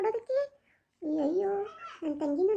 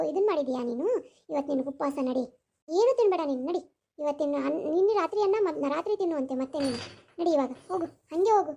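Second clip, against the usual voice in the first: stepmother scolding; 3 semitones lower than usual. Acted.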